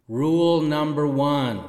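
big hall echo; reverb. Shown as a demonstration. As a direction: announce it with heavy reverb. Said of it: "Sorry about the reverb".

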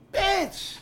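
high-pitched shocked cry; shocked exclamation. Real, not acted. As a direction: yelp it in disbelief. Shocked reaction to fiancée on TV.

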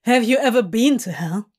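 quick, pointed challenge; rapid-fire taunting question; Crowley mocking. Demon scorning Hob's fear of dying, mocking. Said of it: "Crowley says in a mocking tone".

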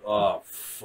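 low, soft, drawn-out realization; hushed, retold dismay; mock sinking dread. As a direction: let the curse sink out quietly. Obi-Wan's sinking realization, acted.

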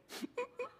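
soft, very high imitated whimper; tiny mock crying squeaks; puppy-like whimpering. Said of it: "like a little puppy".

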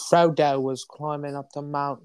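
audiobook narrator voice. Retold or imitated. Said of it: "somebody being like".

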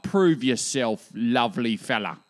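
slow, loud put-on Aussie challenge; mock challenge to God. To God as the atheist bloke, mock challenging Aussie voice. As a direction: dare God, half-joking. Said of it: "Can I ask him for something specific".

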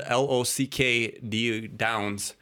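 slow, letter by letter: "L O C K D Downs"; dodging the word by spelling "L O C K D Downs"; spelled out. Real, not acted. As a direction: spell "L O C K D Downs" out slowly instead of saying it. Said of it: "I can't say the word".

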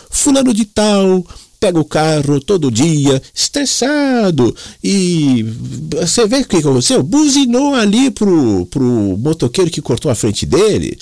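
high, slow Italian-Paulista pigeon voice; Italian Mooca accent. Retold or imitated. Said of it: "ele tinha um sotaque italianão, da Moca".

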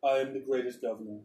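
proud little governor bragging; governor's voice. Acted. Governor greets the arriving party, boastful. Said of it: "and he goes".

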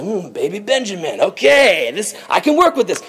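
lightly voiced scheming villain; supervillain. Joseph plots around baby Benjamin, mild supervillain. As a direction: muse with a hint of villainous plotting. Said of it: "like a supervillain, just like".

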